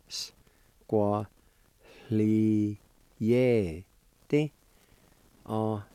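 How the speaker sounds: O, n, s, qua, li, ye, ti said syllable by syllable and repeated; Cherokee word. Shown as a demonstration. Teacher drilling the long word for gargle. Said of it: "It's pronounced like this".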